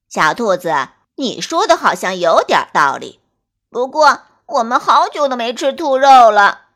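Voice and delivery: musing wolf craving rabbit; hungry wolf voice. Acted. Second wolf voice.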